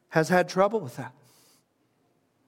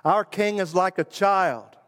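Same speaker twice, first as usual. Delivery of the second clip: raised, ringing declaration like a crowd chant; proclaimed aloud; 4 semitones higher than usual. Shown as a demonstration. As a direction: announce it as the people's song. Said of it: "has his whole constituency sing it".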